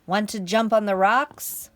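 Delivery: loud, lightly voiced goat; projected, rising question; storybook goat. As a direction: call out an invitation as the goat. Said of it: "said the goat".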